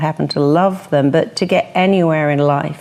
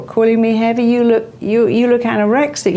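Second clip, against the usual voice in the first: higher, indignant comeback; hammed-up offended snap back; mock retaliation; 6 semitones higher than usual. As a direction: fire it back as a defensive jab. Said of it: "you've let it in. And now you're trying to retaliate".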